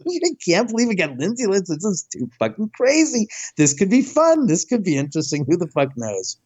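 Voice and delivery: giddy, jazzed-up disbelief; retold giddy glee at the guest. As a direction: bubble over with excitement. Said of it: "like giddy".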